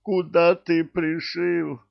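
high, slow indignant cry; indignant exclamation. Acted. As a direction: demand it in outrage. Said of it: "воскликнул он".

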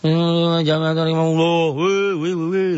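hammed-up rowdy yelling; mock rowdy shouting. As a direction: yell like rowdy kids at tarawih. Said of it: "Teriak-teriak lagi tarawih".

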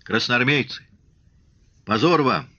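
worn-out voice, holding back a cough; cracked, strained voice. A narrator's reading. Shtokman addressing soldiers once noise subsides, strained reproach. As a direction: start the speech on an overstrained voice. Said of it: "надорванным голосом, подавляя кашель, заговорил".

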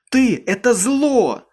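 high, slow, loud hateful cry; screaming with hate. A narrator's reading. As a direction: spit it out with hatred. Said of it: "закричала она с ненавистью".

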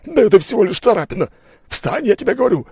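very high, loud furious disbelief; raging outburst. A narrator's reading. Merchant raging at the wounded duelist. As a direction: spit the word back in fury. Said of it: "рвал и метал от ярости".

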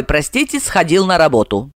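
ordinary delivery, nothing marked

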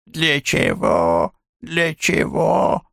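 slow mimicked old man's grumble, rising high on the second; mocking old man grumble. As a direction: tease by aping a grumpy old man. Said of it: "передразнила гнусавое старческое ворчанье". (передразнивая старческое ворчание, медленно)

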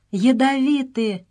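high, slow horrified cry; cry of horror. A narrator's reading. Stop hears the flies are poisonous, a high, slow horrified cry. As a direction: recoil at the word in terror. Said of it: "с ужасом вскричал Стоп".

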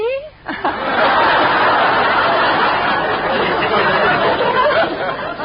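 long whispery giggle rising high; high airless giggle. Acted. Teacher laughing at the mix-up with the biology teacher, high giggle. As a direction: squeal with embarrassed laughter.

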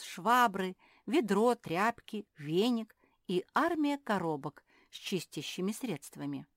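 plain reading voice

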